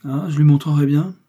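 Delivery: forceful, high-pitched warning; repeated threat. A narrator's reading. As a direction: threaten her with it, voice lifted. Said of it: "tout en répétant".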